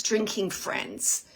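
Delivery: "drinking friends" stretched out slowly, landing on "drinking"; slow stress on drinking. Shown as a demonstration. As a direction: linger over "drinking friends". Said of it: "The word friends seems, like, different".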